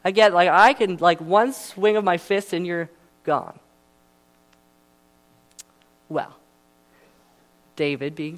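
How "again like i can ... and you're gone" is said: scoffing Goliath. Retold or imitated. Goliath sneers at David's faith, brushing him off loudly. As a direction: brush off the threat with contempt.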